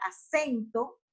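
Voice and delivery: "acento" with the force on middle "cen"; stress on penultimate syllable. Shown as a demonstration. Teacher gives an example of graves, "acento" stressed on "cen". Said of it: "el acento fonético recae sobre la penúltima sílaba".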